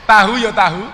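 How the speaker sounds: "Tahu ya tahu" diserukan lebih keras, tekanan pada tahu; aba-aba lantang. Shown as a demonstration. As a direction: pimpin penonton agar mengikuti, lantang. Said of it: "Eh, ikuti saya". (pemandu memberi aba-aba lantang supaya penonton menirukan)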